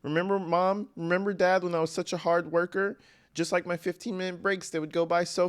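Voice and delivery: prissy imitation of a slacker; mocking Stefan Stearns. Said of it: "He's talking about, like".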